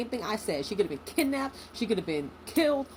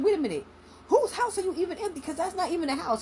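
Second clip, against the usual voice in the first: mock angry mom; 8 semitones higher than usual. Mom confronting father on FaceTime.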